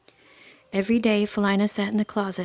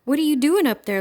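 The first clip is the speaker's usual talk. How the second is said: taunting; 7 semitones higher, 6 dB louder than usual. A narrator's reading. Bully taunts girl in tree.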